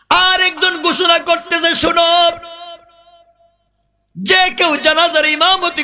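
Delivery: high, ringing sermon chant; full-force preaching. A narrator's reading. Preacher voicing the funeral announcement to the crowd, high proclaiming chant.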